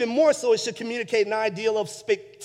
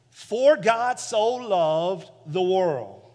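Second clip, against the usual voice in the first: slow scripture reading; much slower than usual. Shown as a demonstration. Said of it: "When you hear "so".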